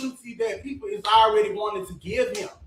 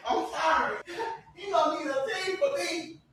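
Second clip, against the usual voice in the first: laughing; 7 semitones higher, 8 dB quieter than usual. Real, not acted. Laughing through own boast.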